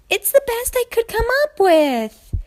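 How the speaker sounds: high, squeaky sheepish filly. Acted. Sweetie Belle defending her excuse to friends, squeaky. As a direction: mumble a lame defence.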